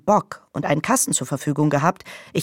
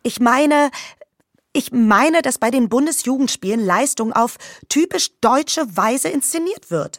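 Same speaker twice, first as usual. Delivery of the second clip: escalating comedy rant; 5 semitones higher than usual. Acted. Rant keeps building.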